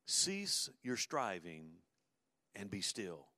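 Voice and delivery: slow and softening to a near hush; gentle slow scripture. Acted. God telling the anxious believer to rest, slow and gentle. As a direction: let the command settle, slow and soft. God's words quoted gently.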